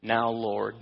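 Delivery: measured, solemn reading of scripture aloud. Acted. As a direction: read the passage to the congregation with weight. Reads Acts chapter four aloud.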